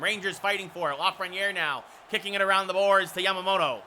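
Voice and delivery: steady running hockey call; play-by-play. Real, not acted. Announcer follows the Rangers power play, steady play-by-play. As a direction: track the puck, lifting for the shot.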